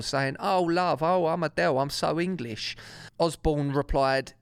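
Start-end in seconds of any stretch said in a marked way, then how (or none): 0.4-2.7 taking the mick in Cockney; mock Cockney accent. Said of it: "did a mock Cockney impersonation of a singer".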